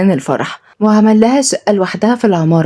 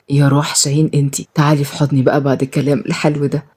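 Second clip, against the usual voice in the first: gentle deep-voiced husband; Shaheen, low loving husband; 4 semitones lower than usual. Shaheen tender.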